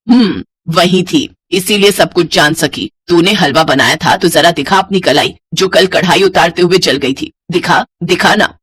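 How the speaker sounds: lightly voiced stern mother-in-law. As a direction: lightly play a mother-in-law catching a liar.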